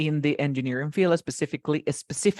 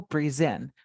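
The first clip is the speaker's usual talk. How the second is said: "present" stressed on the end, pre-SENT; verb stress. Shown as a demonstration. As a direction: lean on the last syllable of "present". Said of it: "Como verbo".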